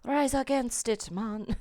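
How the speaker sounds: badly faked Jamaican rallying cry; rally them in a shaky-guess Jamaican accent; attempted Jamaican accent. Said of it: "a Jamaican".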